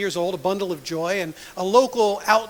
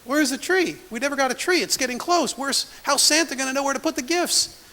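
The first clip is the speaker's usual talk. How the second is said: put-on curious child; 5 semitones higher than usual. Young daughter asks for tree.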